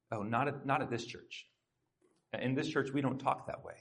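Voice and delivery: softly, gently pausing someone; mild, quiet reproof without pushing; gentle correction. Retold or imitated. Life group member correcting a newcomer's gossip, gentle. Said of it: "gently paused them".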